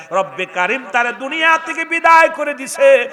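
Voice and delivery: high, loud Islamic sermon cry; full-force preaching. Acted. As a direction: preach it out, pitched high above the crowd. Climax of the sermon's tale. (উঁচু গলায় জোরালো ওয়াজ)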